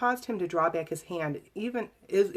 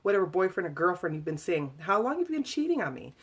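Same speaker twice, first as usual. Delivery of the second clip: angry tirade; 4 dB louder than usual. Retold or imitated. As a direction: lash out with jealous accusations. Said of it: "He continued on angrily".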